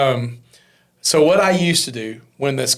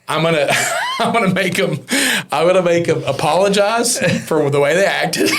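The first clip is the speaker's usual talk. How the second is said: laughing boast; 4 semitones higher than usual. Retold or imitated. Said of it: "I go".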